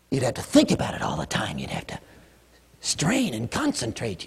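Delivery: hushed, straining inner voice; mock effortful whisper; strained whisper. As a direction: whisper as if straining hard to concentrate. Mocking forced effort to feel.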